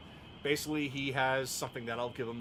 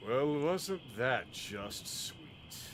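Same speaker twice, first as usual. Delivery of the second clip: slow, drawn-out sarcastic sweetness; mocking; much slower than usual. Unseen villain interrupts a tender farewell, mocking and slow. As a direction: draw it out as a taunt. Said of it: "that voice that was mocking you".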